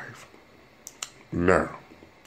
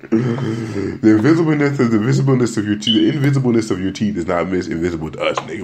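mock repeat; 3 semitones higher, 5 dB louder than usual. Mocking repeat of cousin.

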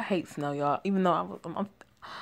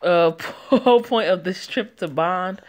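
mocking tone; 3 dB louder than usual. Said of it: "He said in a mocking tone of voice".

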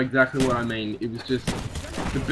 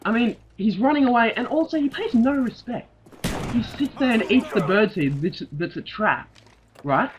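mock-serious rant; 4 semitones higher than usual. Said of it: "I couldn't keep a straight face".

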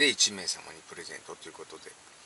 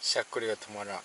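hiccuping while talking; hiccups; 3 dB quieter, faster than usual. Real, not acted. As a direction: speak through hiccups.

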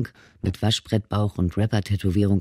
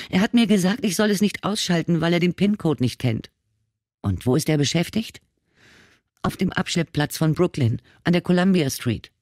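put-on high, tearful young woman's voice; a lightly voiced frightened girl; scared girl; 7 semitones higher than usual. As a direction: plead through lingering tears. Scared girl answers questions.

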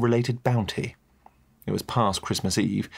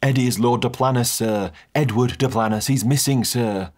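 lightly voiced butler, a touch louder; butler explaining; 3 semitones higher, 3 dB louder than usual. Butler explaining who Eddie is to the guest. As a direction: patiently explain the mistake. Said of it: "He filled me in".

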